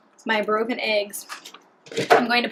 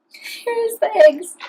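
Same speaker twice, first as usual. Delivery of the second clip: showy reveal; 11 semitones higher, 6 dB louder, much slower than usual. Acted. Big reveal of the dish.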